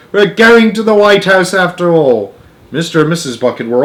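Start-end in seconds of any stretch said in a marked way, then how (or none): 0.1-2.3 excited. A narrator's reading. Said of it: "sang Grandpa Joe".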